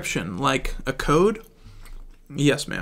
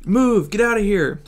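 urgent shout; 6 semitones higher, 4 dB louder than usual. Acted. Fleeing the exploding ship.

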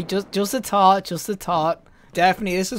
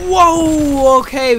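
startled; 8 semitones higher, 10 dB louder, much slower than usual. Real, not acted. Sudden fight.

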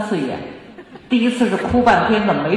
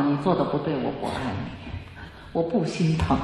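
我不爱你 said slowly and much softer, each word weighed; firm, slow statement; 5 semitones lower, 7 dB quieter than usual. Shown as a demonstration. Parent telling a small child firmly, slow and soft. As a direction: lay it down slowly and quietly, no anger. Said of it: "你一定要在他小的时候告诉他".

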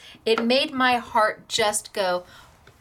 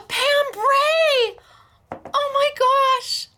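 high, overwhelmed, real happy crying; blubbering; 9 semitones higher than usual. Real, not acted. Crafter discovering Pam made the gift, blubbering. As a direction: cry out the name in tearful surprise, ending in a sobbing laugh. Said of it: "I'm just a blubbering little".

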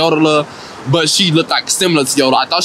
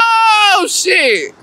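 laughing shriek; 14 semitones higher than usual. Real, not acted. Still cracking up.

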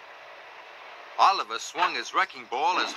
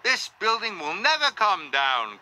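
higher, exasperated moan; groaning; 6 semitones higher than usual. A narrator's reading. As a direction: groan it out in frustration. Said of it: "groaned his operator".

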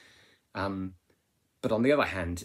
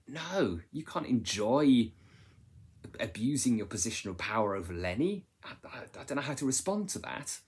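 imitating shocked reader; 5 semitones higher than usual. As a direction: act a stunned reader protesting. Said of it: "kind of thinking".

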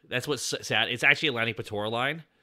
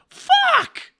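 a shrieking, much higher and louder yell of the word; a scream after a gut punch; pained scream; 11 dB louder than usual. Retold or imitated. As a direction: yelp it like you just took a punch to the gut. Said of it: "punched in the gut and screaming".

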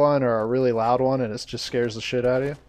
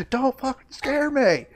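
high-pitched, drawn-out mock outburst; mock irritated; 14 semitones higher, slower than usual. Streamer imagining a reaction to jump scares, mock irritated. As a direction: squeal it slowly in exaggerated irritation. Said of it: "I'd get so irritated".

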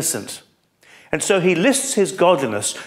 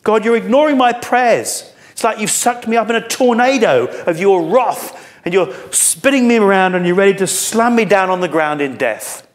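high, loud, pained complaint; anguished paraphrase; 7 semitones higher, 4 dB louder than usual. Acted. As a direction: press God hard, voice raised in anguish. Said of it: "Do you see the anguish of his heart?".

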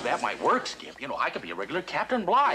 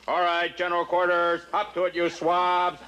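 skipper's order voice. Acted. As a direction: give orders as the skipper would. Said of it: "It's your whole tone of your voice".

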